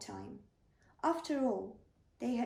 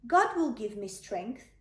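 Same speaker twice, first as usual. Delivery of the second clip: confident; 6 dB louder than usual. Acted. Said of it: "said David".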